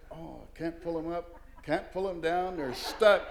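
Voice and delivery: mock helpless protest; acted helpless struggle. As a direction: play a kid stuck in his pants. Kid struggling with stuck pants.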